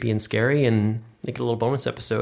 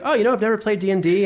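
mimicking David; 9 semitones higher than usual. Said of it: "David's like".

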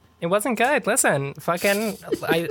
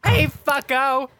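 angry yell; 8 semitones higher, slower than usual. Acted. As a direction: snap back at the driver. Yelling at the car behind.

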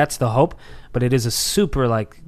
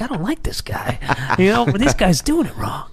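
mock drunk grudge; 6 semitones higher than usual. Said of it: "You're looking like".

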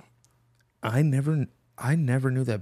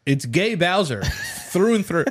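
laughing; 4 semitones higher than usual. Real, not acted. Laugh heard on line.

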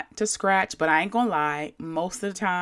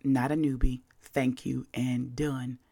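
curt dismissive reading; 5 semitones lower, 6 dB quieter than usual. Retold or imitated. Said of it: "exactly how I read it".

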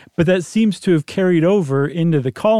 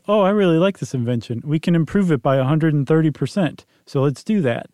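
put-on light Japanese accent, a bit fast; lightly imitated Japanese accent. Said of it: "That's a good Japanese accent".

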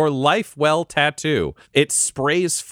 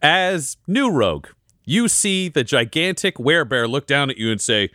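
usual speaking voice

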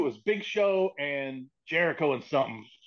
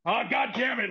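mock exasperated boss; 7 semitones higher than usual. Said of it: "literally went".

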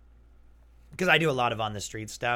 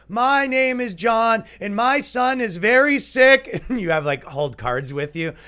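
panhandler speech; 12 semitones higher, 7 dB louder than usual. Pretend. Fake panhandler pleading for money, high and loud. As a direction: beg for bus money pitifully. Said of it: "You give them the speech".

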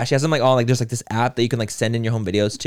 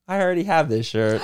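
lightly voiced toddler, a touch higher; little kid voice; 5 semitones higher than usual. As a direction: imitate a small child's cute accent, lightly. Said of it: "he said it in this little accent".

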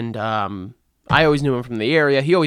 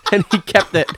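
laughing; 7 semitones higher, 7 dB louder than usual. Real, not acted. Laughing while telling.

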